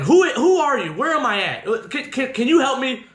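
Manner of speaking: high, stammering agitated questions. Retold or imitated. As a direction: stumble over urgent questions to a stranger. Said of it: "now I'm getting agitated".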